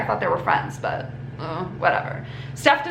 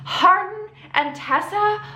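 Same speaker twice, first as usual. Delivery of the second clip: shocked; 6 semitones higher than usual. Retold or imitated. Molly shocked by the news.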